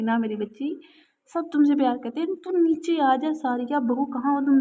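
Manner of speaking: a touch of tender pleading; coaxing. Acted. Grandmother coaxes the girl down from the roof, tenderly. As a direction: soothe the child with a lightly coaxing voice. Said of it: "इसे पुचकारते हुए कहा".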